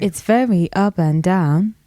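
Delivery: melodic Yoruba accent, up and down. Shown as a demonstration. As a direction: demonstrate the tonal Yoruba lilt. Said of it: "Give us an example".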